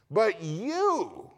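YOU held high, then falling; emphatic YOU. Retold or imitated. Preacher showing who the verse addresses, emphatic YOU. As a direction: lift YOU high and let it drop. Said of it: "and it's emphatic".

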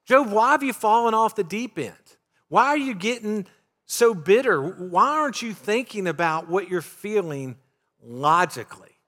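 lightly voiced buddy telling Job to snap out of it; blunt casual paraphrase. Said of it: "That's a nice way of saying".

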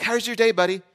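high, loud singsong hello; bright welcome to his kid; dad sweetly greeting his son off the bus; cheery dad greeting. Retold or imitated.

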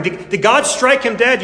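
murmuring crowd. Acted. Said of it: "You can hear the murmuring".

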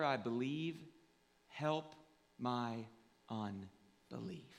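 slow, spaced-out prayer, falling at the ends; earnest prayer. Real, not acted. Pastor praying to accept God by faith, earnest prayer.

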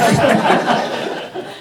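airy laugh at his own fright; high breathy laugh. Real, not acted. Preacher laughing at his baboon scare, breathy laugh.

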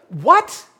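loud, high shocked exclamation; incredulous outburst. Acted. Onlooker seeing a man address the dead, incredulous. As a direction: blurt it out in disbelief. Acts out shocked reaction to miracle.

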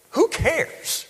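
high, flippant who cares; mock indifferent. Mocking indifferent listener.

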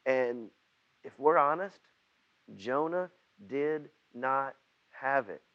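normal talking voice

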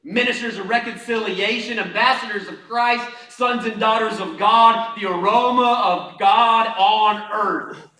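high, loud, slowing proclamation; full-force preaching. Real, not acted. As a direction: declare each title, stretching to the climax. Preacher builds declaration at full force.

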